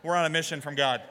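light, playful Chicago accent. Shown as a demonstration. Pastor prompting people to tell their neighbor, Chicago accent. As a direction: say it like a Chicago movie tough, lightly. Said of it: "In your best Chicago accent".

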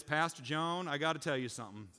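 lightly put-on Texas drawl; Southern drawl. Texan oilman confiding in the pastor after church, mock Southern drawl. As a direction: imitate a Texan cowboy's Southern accent, lightly. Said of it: "I'm gonna stop doing that accent".

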